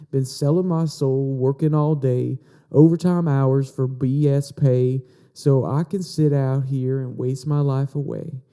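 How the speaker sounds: put-on light Virginia southern accent on the lyrics; a touch of Southern country drawl, lightly done. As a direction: read the song lines with a hint of southern accent. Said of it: "did you guys like my, my southern accent there".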